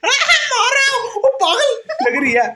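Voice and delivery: high loud words through laughter; laughing. Real, not acted. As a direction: keep laughing as you speak.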